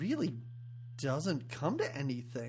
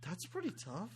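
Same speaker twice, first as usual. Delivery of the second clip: soft, breathy Boston bro, lightly voiced; Boston accent impression; 10 dB quieter than usual. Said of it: "that's my Boston accent".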